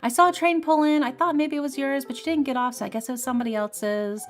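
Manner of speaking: cheery, unworried mom, a light impression; mom's chatty message.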